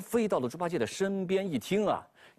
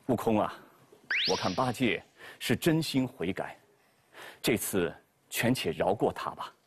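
lower, calm monk voice; Tang Seng; 7 semitones lower than usual. Acted. Tang Seng asks Wukong to spare Bajie, low and calm. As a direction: gently talk the monkey down.

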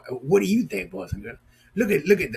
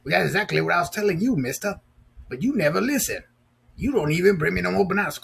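puppet complaining; 3 semitones higher, faster than usual. Pretend.

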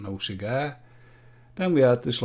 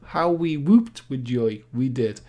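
mock joy; 2 semitones higher, 4 dB louder, slower than usual. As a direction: ham up the old joy. Nostalgic hammed-up storytelling.

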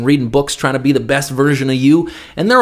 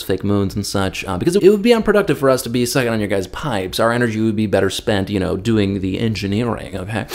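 mock calm negotiating; 5 semitones lower, faster than usual. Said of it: "try to negotiate all calmly".

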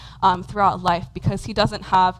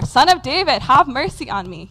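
louder, higher acted plea; insistent cry for mercy; crying out harder; 3 semitones higher, 4 dB louder than usual. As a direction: call out despite being hushed. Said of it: "cried out all the more".

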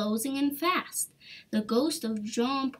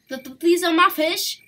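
uncertain; 6 semitones higher, 8 dB louder, faster than usual. A narrator's reading. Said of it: "with uncertain spirit".

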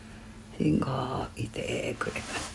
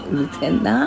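louder, irritated snap; annoyed grumble; 5 semitones higher, 6 dB louder than usual. Real, not acted. Grumbling at her husband over the TV, irritated. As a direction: let the racket really get to you.

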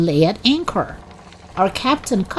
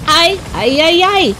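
put-on young girl; 10 semitones higher, 4 dB louder than usual. A narrator's reading. Girl answering the roll call.

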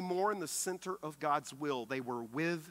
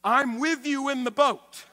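voicing Jesus; 9 semitones higher, 11 dB louder than usual. Jesus' reassurance voiced.

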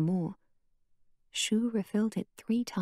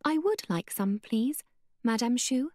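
firmly; 4 semitones higher than usual. Acted. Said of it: "then said firmly".

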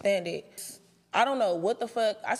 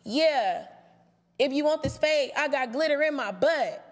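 raised pitch, taunting; mocking suggested line; 4 semitones higher than usual. To a castmate, a mock taunting comeback. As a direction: taunt her with a silly comeback. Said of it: "Or how about".

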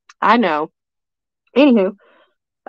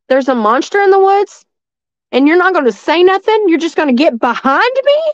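mad; 5 semitones higher, 4 dB louder than usual. Retold or imitated. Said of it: "and I was mad".

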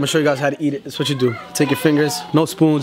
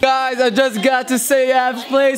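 shouting; 10 semitones higher, slower than usual. Real, not acted. Arriving at party, calling out.

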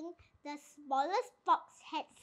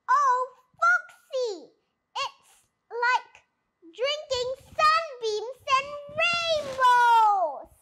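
slow, higher dreamy rapture; blissful; 7 semitones higher, 6 dB louder, slower than usual. A narrator's reading. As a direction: float on the words, tipsy with joy. Badger enraptured by cider.

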